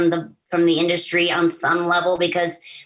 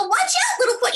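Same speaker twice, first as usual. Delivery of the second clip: very high warning cry; warning line. Shown as a demonstration. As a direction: shoot way up in pitch for the warning. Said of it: "and you have to go".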